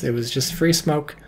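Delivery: usual speaking voice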